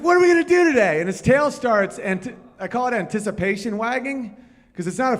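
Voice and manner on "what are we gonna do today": high and loud eager puppy; excited dog voice. Retold or imitated. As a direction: ask it like the best day ever. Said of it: "So he's like".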